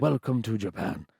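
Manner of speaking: put-on Japanese-accented welcome. Shown as a demonstration. Author demonstrating his audiobook voices, Japanese accent. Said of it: "for Japanese voices".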